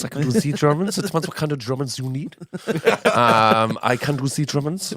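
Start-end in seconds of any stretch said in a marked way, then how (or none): 0.0-1.0 put-on German accent. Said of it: "German accents". 3.8-4.9 put-on German accent. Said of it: "only in the comical sort of way".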